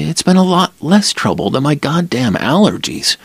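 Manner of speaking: a hint of a nervous young woman; Lila's voice.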